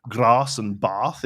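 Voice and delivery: "grass" and "bath" with "ah" at the back of the throat; Scottish long A. Shown as a demonstration. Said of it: "top of the back of the throat".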